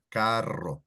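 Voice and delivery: carro with the rr trilled; rolled R. Shown as a demonstration. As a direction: roll the rr in carro. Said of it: "it rolls the R".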